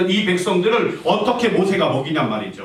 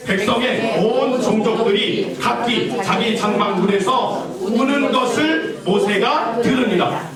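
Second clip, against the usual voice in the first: 함께 성경 봉독; 3 semitones higher, slower than usual. Shown as a demonstration. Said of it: "같이 읽어볼까요? 시작".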